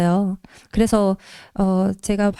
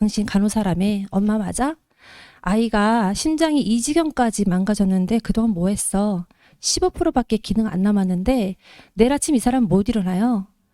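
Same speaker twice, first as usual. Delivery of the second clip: ordinary talk, nothing marked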